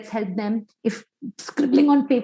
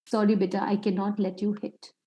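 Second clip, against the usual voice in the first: calm firm limit; 3 semitones lower, 6 dB quieter than usual. Shown as a demonstration. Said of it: "Limit is".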